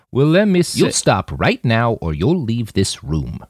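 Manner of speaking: firm, calm warning without heat; steady no-nonsense old woman. Acted. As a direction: lay down the law evenly. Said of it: "voice was firm, but devoid of any anger".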